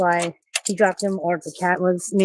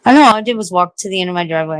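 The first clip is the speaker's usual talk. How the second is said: out of breath; 5 dB louder, faster than usual. Real, not acted. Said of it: "I sound like an eighty-year-old person mouth breathing".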